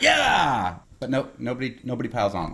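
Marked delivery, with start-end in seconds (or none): 0.0-0.8 high, drawn-out cheer; imagined crowd cheer. Retold or imitated. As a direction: imitate an audience cheering along. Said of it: "expect them to be like".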